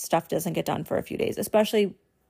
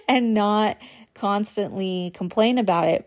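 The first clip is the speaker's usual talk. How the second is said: laughing; 3 semitones higher than usual. Real, not acted. Laughs at herself.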